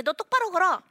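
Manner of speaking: high, loud scolding order; loud mock command to a limping child; bossy parent command. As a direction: bark it like a nagging parent. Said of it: "이렇게 하면".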